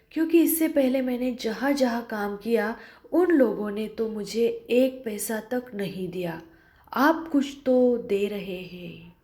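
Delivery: frightened, barely daring to answer; fearful voice. Acted. Julia answers her angry employer fearfully. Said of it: "भयभीत स्वर में डर कर बोल रही है".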